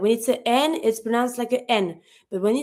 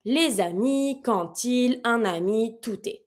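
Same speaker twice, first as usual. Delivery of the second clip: natural fast; 3 dB quieter than usual. Shown as a demonstration. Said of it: "if you say it pretty, um, fast, like naturally".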